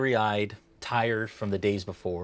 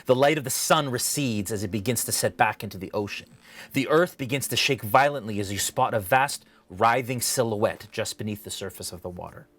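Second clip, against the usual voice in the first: measured, dramatic scene-setting with deliberate pauses; game master narration. Acted. Game master describing a dream to a player, dramatic narration. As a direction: paint the vision phrase by phrase.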